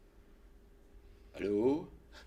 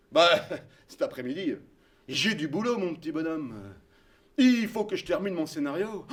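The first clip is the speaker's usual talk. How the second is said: voix grave et posée de vieil homme; un vieux monsieur bonhomme, grave et lent; voix de Bertrand; 4 semitones lower than usual. Retold or imitated. Bertrand au téléphone. (imitation de Bertrand, voix grave et basse)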